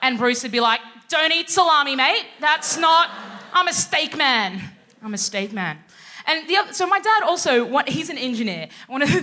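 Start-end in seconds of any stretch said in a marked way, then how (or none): 1.1-5.8 mock Aussie bloke. Bruce mishearing.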